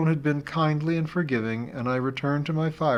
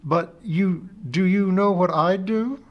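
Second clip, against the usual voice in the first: higher voiced friend, affectionate; a friend gently teasing her over the phone; friend Amy, fond teasing; 7 semitones higher, 4 dB louder than usual. Friend Amy teases the anxious teacher, affectionately higher.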